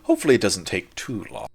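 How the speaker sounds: slow, measured in-character answer; a hint of a formal figure, drawn-out words; lightly voiced formal figure. Game master in character explains a man's debt, lightly voiced.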